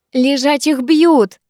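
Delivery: high, drawn-out battle cry; excited cry. A narrator's reading. Викуля egging on the snowball fight, crying out. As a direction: call it out slowly, carried away. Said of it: "выкрикнула Викуля, войдя в раж".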